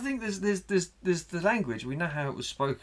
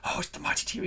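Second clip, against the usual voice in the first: mock posh T-Rex; 6 semitones higher than usual. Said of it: "T-Rex would be like".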